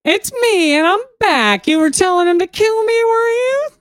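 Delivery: put-on very high, slow, gloating child voice; sinister little boy. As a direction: savour the creepy return, slow and smug. Boy voice returns, menacing.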